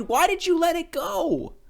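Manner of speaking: high pleading cry. A narrator's reading. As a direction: villagers call out, baffled. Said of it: "the people cried".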